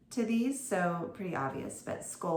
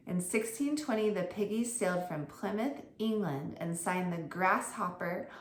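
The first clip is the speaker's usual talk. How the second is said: put-on reading aloud to kids. Shown as a demonstration. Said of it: "I'm reading it the correct way".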